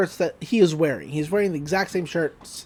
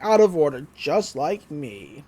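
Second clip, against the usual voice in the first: sad; 5 semitones lower than usual. Retold or imitated. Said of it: "And he's very sad".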